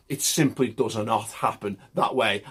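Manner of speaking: put-on a light passing Italian accent; faint Italian-accented phrasing. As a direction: slip into a hint of an Italian accent on this line. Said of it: "I went a bit Italian there".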